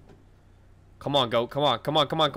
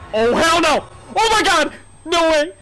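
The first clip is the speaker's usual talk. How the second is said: higher-pitched shocked outbursts; alarmed exclaiming; 6 semitones higher than usual. Real, not acted. Player shocked in horror game, alarmed exclaiming.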